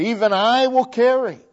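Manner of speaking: "I" in "Even I will carry" hit high and loud; stress on I. Shown as a demonstration. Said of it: "there's emphasis".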